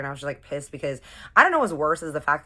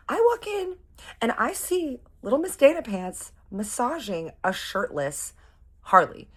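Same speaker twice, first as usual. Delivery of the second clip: excited gossip; 10 semitones higher than usual. Retold or imitated. Spilling gossip to her friend.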